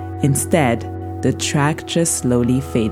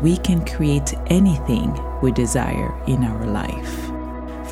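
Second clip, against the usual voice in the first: guided meditation. Acted. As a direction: lull the listener gently toward sleep.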